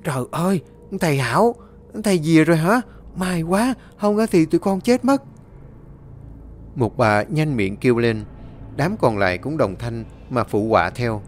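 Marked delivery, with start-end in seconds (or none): 0.0-5.2 higher, climbing relieved cry; relieved exclamation. Acted. Villager recognising the exorcist, crying out with relief. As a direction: greet the saviour with rising relief. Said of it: "một người nhận ra kêu lên".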